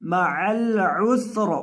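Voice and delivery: माअल उसर slow, ending on a silent र, falling; pausal stop. Shown as a demonstration. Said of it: "वक़फ़ करते वक़्त पढ़ेंगे माअल उसर". (वक़फ़ के साथ, र साकिन)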